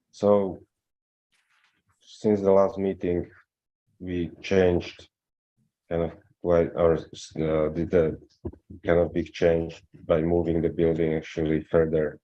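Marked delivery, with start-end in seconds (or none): 4.4-12.2 muffled, like through cloth. Real, not acted. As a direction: voice muffled on the mic. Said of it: "You're a little muffled".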